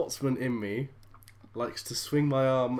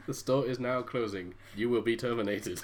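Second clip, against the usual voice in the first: robot voice; 4 semitones lower than usual. Pretend. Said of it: "David's a robot".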